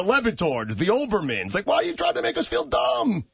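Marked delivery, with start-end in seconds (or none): 1.5-3.2 indignant shout. Real, not acted. Indignant question at hosts.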